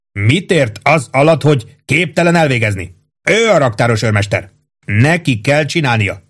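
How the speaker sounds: a hint of a hearty captain; captain Holmes voice. Captain praising his old cook, lightly hearty.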